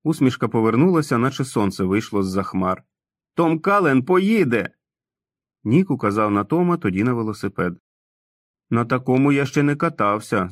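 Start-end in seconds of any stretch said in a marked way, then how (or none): 3.3-4.7 joyful cry. Acted. Tom repeats joyful news. 8.7-10.5 put-on light childlike Tom voice, unsure; hesitant man-child eyeing the bike; doubtful. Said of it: "засумнівався Том".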